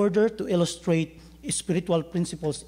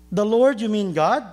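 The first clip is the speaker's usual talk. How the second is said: surprised shout; 4 semitones higher, 5 dB louder than usual. Acted. Jack surprised by the voice.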